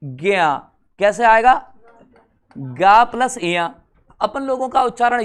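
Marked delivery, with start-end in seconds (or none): 0.0-0.5 ज्ञा drawn out slowly so the g and ya separate; slow motion. Shown as a demonstration. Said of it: "थोड़ा सा slow motion में सुने". 2.5-3.7 slow, spelled out piece by piece; slow breakdown. Shown as a demonstration. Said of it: "थोड़ा सा slow motion में सुने".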